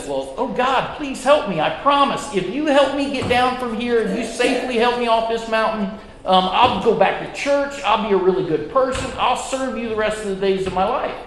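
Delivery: mock desperate bargaining; pleading with God. Man begs God to save him.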